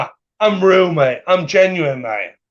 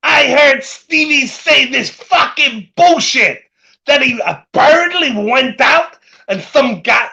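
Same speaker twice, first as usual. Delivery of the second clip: higher-pitched mocking impersonation; mock rant; 5 semitones higher, slower than usual. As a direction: quote him in an indignant, raised voice. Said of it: "for Tony to say".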